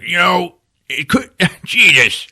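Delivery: breaking into laughter. Real, not acted. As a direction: try to go on while cracking up. Cracking up mid-story.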